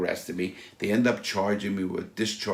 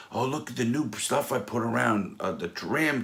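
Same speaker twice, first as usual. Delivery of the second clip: lightly voiced boat owner, higher pitch; a hint of an eager owner showing things off; chatty boat owner; 5 semitones higher than usual. Owner showing me the new stuff on the boat, lightly mocked chatty voice.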